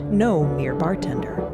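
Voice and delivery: ordinary talk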